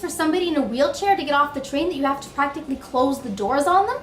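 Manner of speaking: loud, high exasperated rant; inner rant. Retold or imitated. Teacher voicing her hidden subway anger, loud and fast. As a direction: let the frustration burst out. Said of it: "what I'm really thinking is".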